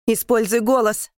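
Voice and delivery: urgent shouted order. A narrator's reading. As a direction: press her hard, stress on голос. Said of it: "кричит он мне".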